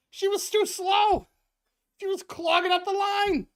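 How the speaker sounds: rant, defending the indefensible; George ranting. Retold or imitated. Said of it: "and George goes".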